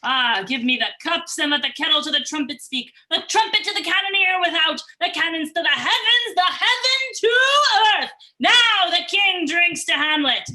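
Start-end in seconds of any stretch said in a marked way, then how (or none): 1.4-10.5 building from raised voice to full shout; the king whips the court up, louder and louder until he shouts; rising royal proclamation. Acted. King proclaiming his toast to the whole court, swelling into a shout.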